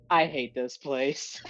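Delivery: slow, dry deadpan. Acted. A weary hero mutters it deadpan while people drop around him. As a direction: say it without a flicker of feeling, slowly. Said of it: "He's gonna go deadpan forward".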